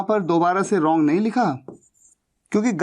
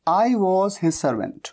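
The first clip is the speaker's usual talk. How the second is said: slow dictation; much slower than usual. Shown as a demonstration. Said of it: "teacher dictates the translation".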